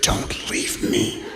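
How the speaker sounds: slow, whispered begging with laughs; desperate clinging plea. Retold or imitated. The needy one clinging during a handshake, whispered and desperate. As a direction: beg breathlessly not to be left.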